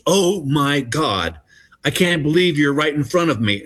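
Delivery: retold starstruck disbelief; starstruck fan. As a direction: imitate an amazed fan, stretching the opening words. Starstruck older woman at counter.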